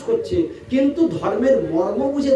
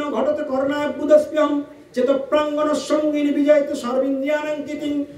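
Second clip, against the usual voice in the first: shloka recitation. Acted. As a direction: recite the Sanskrit verse in a steady chant. (সংস্কৃত শ্লোকের একটানা আবৃত্তি)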